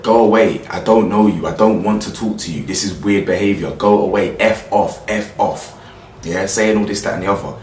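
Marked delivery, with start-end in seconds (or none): 0.0-5.8 a firm, louder mock telling off; voicing the woman pushing him away, firmly; retold telling off. Vlogger retells the woman rejecting the man, louder. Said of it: "She's then said".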